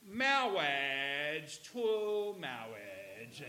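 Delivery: very slow, drawn-out mock clergyman with r's as w's; movie priest's accent. Preacher imitating the movie's wedding priest, comic speech impediment. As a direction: stretch it out pompously, "mawwage, twue mawwage". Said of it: "he has this accent, and he goes".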